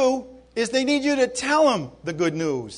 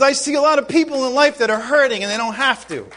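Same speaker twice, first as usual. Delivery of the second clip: impassioned preaching, pitched higher; worked up; 4 semitones higher, 3 dB louder than usual. Real, not acted. Preacher explaining his concern for hurting people, worked up. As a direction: pour it out with real urgency. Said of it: "I'm getting all worked up".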